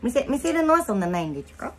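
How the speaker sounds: put-on baby talk.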